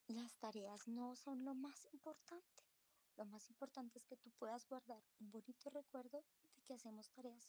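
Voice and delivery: mother apologizing to her upset daughter, tender and hushed; tender apology. Retold or imitated. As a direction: reassure her through the door, lightly voiced. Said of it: "Y yo le decía".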